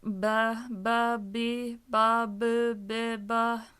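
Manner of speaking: playful, freer reading of the syllables; color the syllables, try something inventive; creative take. Shown as a demonstration. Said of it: "get creative".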